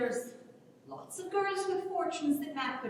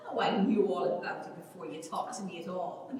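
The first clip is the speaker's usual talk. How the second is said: laughing reply; 6 semitones lower than usual. Acted. Ellen answers Sally's teasing, laughing. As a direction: talk through laughter.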